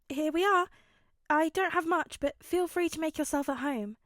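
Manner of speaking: a loud, upbeat dad voice; cheerful host. Acted. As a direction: welcome them in with big cheer. Hizashi greets the family.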